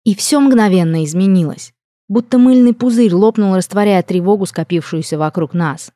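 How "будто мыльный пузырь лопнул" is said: ordinary delivery, nothing marked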